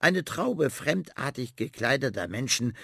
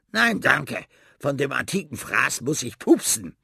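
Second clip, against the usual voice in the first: rat voice; 4 semitones higher, 5 dB louder than usual. Acted. Rat refusing the old book.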